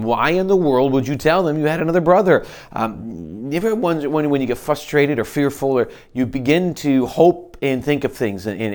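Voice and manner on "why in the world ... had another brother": mock yell. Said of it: "he starts yelling at him".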